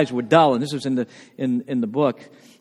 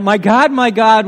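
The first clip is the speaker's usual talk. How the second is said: a louder, lifted cry of my God; 3 semitones higher, 6 dB louder than usual. Retold or imitated. Preacher quoting Jesus crying out on the cross, raised voice. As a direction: call it out like an anguished plea. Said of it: "Jesus cried out".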